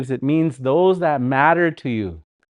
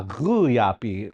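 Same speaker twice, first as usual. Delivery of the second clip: slow demo; 4 semitones lower, 3 dB quieter, slower than usual. Shown as a demonstration. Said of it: "good example is the word".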